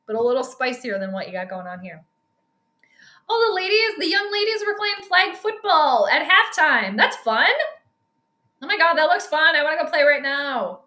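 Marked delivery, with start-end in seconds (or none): 3.3-10.8 excited delight. Real, not acted. Delighted by halftime flag football.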